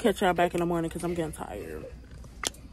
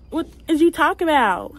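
put-on ghetto girl voice; 7 semitones higher, 7 dB louder than usual. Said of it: "I had a little ghetto voice".

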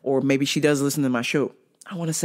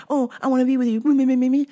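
mocking ex; 8 semitones higher, 3 dB louder, faster than usual. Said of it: "whenever they have a fight".

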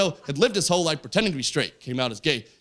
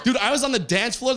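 excited; 5 semitones higher than usual. Real, not acted. Reliving the party high.

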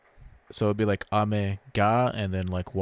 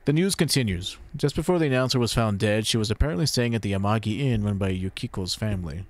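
news report read. Acted. Anchor reporting on the dead announcer, brisk news read.

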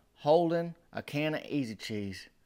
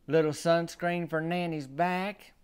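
unrepentant granny; 3 semitones higher, slower than usual. Retold or imitated. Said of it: "she said".

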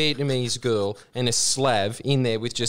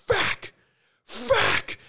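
much higher mock panicked curses; imitated panicked swearing. Miss Love wrestling the eel, high panicked cursing. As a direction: squeak out the swears in alarm. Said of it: "you hear Miss Love just go".

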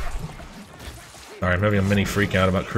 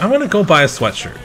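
quoting friend; 8 semitones higher, 5 dB louder than usual. Retold or imitated. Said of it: "so he's like".

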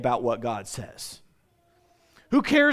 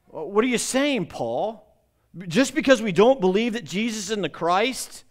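higher-pitched, disbelieving questioning; imitating indignant doubters, pitch raised on the questions; incredulous objectors; 4 semitones higher than usual. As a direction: challenge Paul like an affronted objector, voice lifted. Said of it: "They're kind of like".

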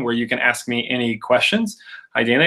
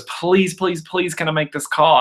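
high-pitched mock begging; imitated pleading; 5 semitones higher than usual. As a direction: beg like an insistent mom, lightly acted. Mom begging to make a call.

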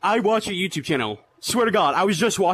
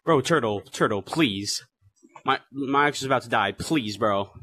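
desperate pleading; 8 semitones lower, 4 dB quieter, slower than usual. Real, not acted. Begging for help, controller dying.

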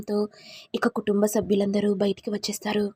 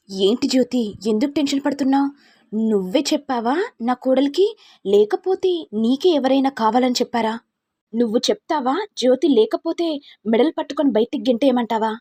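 raised, higher angry interrogation; angry mistress; 3 semitones higher, 4 dB louder than usual. Acted. Mother-in-law grilling the maid, louder and angrier. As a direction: corner the maid with a raised, accusing voice.

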